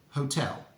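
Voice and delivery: hotel, clear stress on TEL; model for repeating. Shown as a demonstration. Teacher leading a repeat-after-me drill. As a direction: say hotel for learners to repeat back. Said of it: "say the word hotel five times after me".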